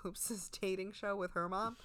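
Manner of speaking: hushed whispered aside. Real, not acted. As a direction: whisper it like a secret. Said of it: "whispered aside".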